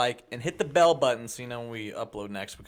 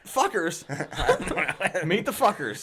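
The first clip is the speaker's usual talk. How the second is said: laughing; 4 semitones higher than usual. Real, not acted. Laughing after prank.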